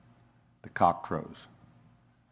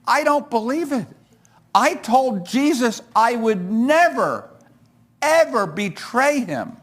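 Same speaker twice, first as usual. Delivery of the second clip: higher and slowed, a touch of weeping; mildly choked-up disbelief; mild tearful lament; 10 semitones higher than usual. Acted. Peter lamenting his betrayal of Jesus, understated crying. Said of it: "But, but Peter cries".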